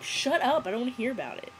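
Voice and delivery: half-serious indignant snap; mock outburst. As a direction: act out fed-up protest. Acted retort as that guy.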